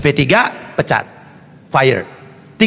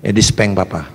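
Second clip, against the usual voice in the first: put-on meek child's answer; 13 semitones lower, 4 dB quieter than usual. Voices child answering father meekly.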